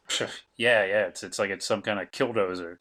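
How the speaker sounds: offhand scoff, tossed out there; as if half laughing to yourself, not really caring; Dennis, sardonic. Pretend. Dennis naming the machine as if he doesn't care, sardonic. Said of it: "like, in a sardonic way".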